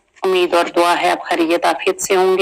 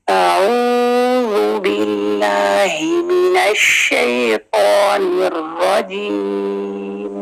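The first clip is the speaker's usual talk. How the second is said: slow, drawn-out tajweed recitation; Quran recitation; much slower than usual. Shown as a demonstration. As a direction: recite slowly with melody. (धीमी तिलावत)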